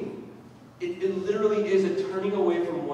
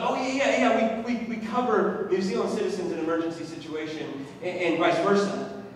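relieved; 4 semitones higher, 4 dB louder than usual. Retold or imitated. Relieved clerk explains coverage.

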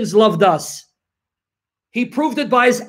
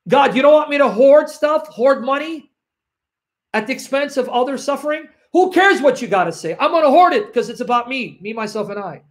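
lightly acted greedy sinner who only cares about himself; defiant hoarder; 4 semitones higher than usual. Preacher voicing a hoarder dismissing God, higher and mock defiant.

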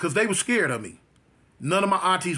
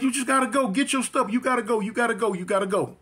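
higher-pitched, insistent repeated plea; imitated upset mother; 5 semitones higher than usual. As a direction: plead like a distraught mother, lightly acted. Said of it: "she was just crying".

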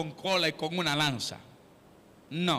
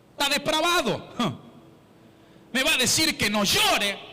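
indignant grieving widow; 5 semitones higher than usual. Retold or imitated. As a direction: retell the widow scoffing at Jesus, rising higher. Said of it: "Yo me imagino si esa mujer". (imitando a la viuda indignada que sube de tono)

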